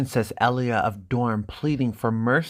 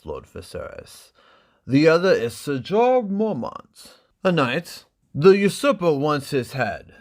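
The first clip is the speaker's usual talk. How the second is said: louder, high, eager host; higher, louder Illyrio gossiping; fawning merchant; 4 semitones higher, 6 dB louder than usual. Acted. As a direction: point out the guests like an excited host. Illyrio introducing the guests.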